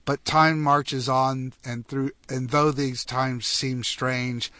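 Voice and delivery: rhythmic read-aloud of comic holiday verse; poem reading. Acted. Host reading a listener's Christmas tech poem on air, recited in verse rhythm. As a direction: recite it in measured rhyming couplets.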